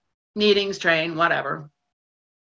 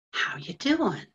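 earnest greeting; 3 dB quieter, slower than usual. Acted. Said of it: "like he really needs to know".

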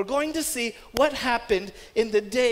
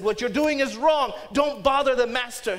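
a touch louder, stern scolding; sharp rebuke; 4 dB louder than usual. Retold or imitated. Disciples scolding parents with children, stern sharp rebuke. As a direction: push the parents away firmly. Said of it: "They rebuked them".

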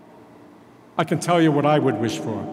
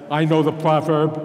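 I know the proverb with I leaned on; I set against you; stress on I. Acted. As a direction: lean on I, the rest light. Contrasting who knows the proverb.

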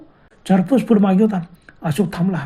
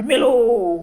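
mock scream; 4 semitones higher, much slower than usual. Pinned friend cries out, higher drawn-out mock scream. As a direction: imitate a dying wail without full force. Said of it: "मोठ्याने किंचाळी पडले".

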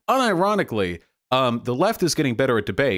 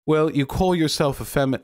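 put-on failed British accent; 5 semitones higher than usual. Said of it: "I can never do a consistent Brit Bonger accent".

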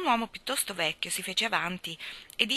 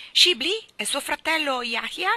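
higher, louder and slow, hungry for news; eager question; 7 semitones higher, 8 dB louder than usual. Acted. Old guide asking after the Turshan brothers, eager and loud. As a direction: ask as if the name means everything.

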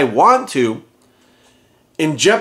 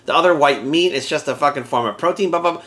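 softer, dismissive mock voice; mocking quote; 2 semitones lower, 4 dB quieter than usual. Mocking the critics who say pork is just protein, softer sneering voice. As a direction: brush it off like a smug know-it-all. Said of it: "The I F whammers will be like".

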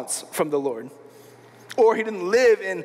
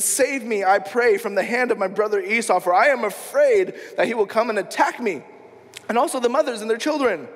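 mildly urgent plea, lightly acted; pleading prayer. Jacob begs God to save him from Esau, pleading. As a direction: appeal for rescue with a touch of urgency. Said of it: "crying out to God".

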